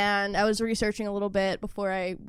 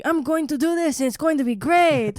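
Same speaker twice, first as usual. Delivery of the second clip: louder, eager announcement; mock enthusiasm; 4 semitones higher, 3 dB louder than usual. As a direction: announce a big plan, hammed-up. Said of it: "He's just like".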